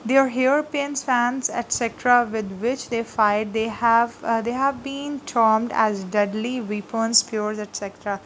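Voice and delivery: slow, deliberate note reading for students; slow dictation. Acted. Teacher dictating notes to her class, slow and clear. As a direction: dictate each phrase so they can write it.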